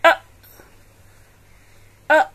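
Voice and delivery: short u "a, a," as in umbrella; teacher models short u; short u sound. Shown as a demonstration. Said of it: "is pronounced as".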